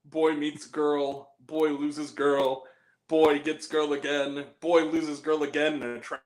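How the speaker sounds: slow, straight-faced retelling; measured movie-hero deadpan; deadpan serious. Retold or imitated. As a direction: play the absurd story dead seriously. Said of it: "playing it like it's a serious movie".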